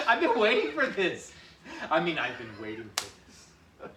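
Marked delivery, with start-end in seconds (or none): 0.1-1.3 high, loud, slow relish; gleeful villain. Acted. Partner joining the skit in a high, slow, gleeful voice. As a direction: savour the line like a villain. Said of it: "S1 plays along".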